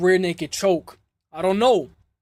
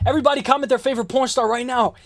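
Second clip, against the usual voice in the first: higher-pitched call to everyone; 5 semitones higher, faster than usual. Pretend. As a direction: shout it out to the whole chat. Calls out to the whole chat.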